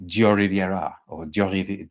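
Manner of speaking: halting French accent attempt, lightly done; French accent try. Shown as a demonstration. Vlogger attempting the perfume name in a French accent, hesitant. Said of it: "works with a French accent".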